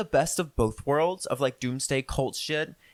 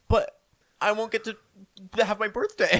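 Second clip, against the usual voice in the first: a hint of an upset child; lightly acted, higher-pitched kid's protest; mock childish dismay; 4 semitones higher than usual. Podcaster replays fearing the world ends before birthday, mock dismay.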